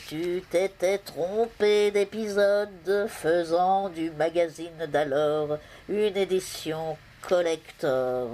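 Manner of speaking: slow, declaimed love poem with long-held vowels; mock-lofty ode, stretched out slowly; poem recital. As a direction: recite grandly to a beloved, pausing between phrases. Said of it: "vous dire un poème".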